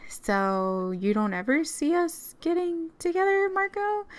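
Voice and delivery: rising in disbelief at Marco; hurt surprise. Acted. Gabby hearing Marco won't date her again, hurt surprise.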